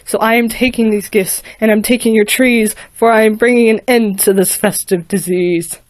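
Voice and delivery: cold, commanding Sith lord threat; lightly voiced menacing dark lord; booming Darth Vader. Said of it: "with his voice booming loud".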